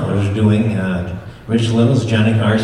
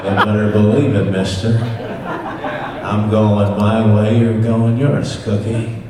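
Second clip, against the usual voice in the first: John Wayne impression; 2 semitones lower than usual. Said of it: "there's the Duke, John Wayne".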